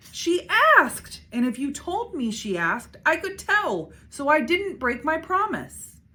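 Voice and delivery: high, loud indignant squeal; high squealing girl. A narrator's reading. Little sister squealing that she kept her promise. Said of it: "the squid squealed".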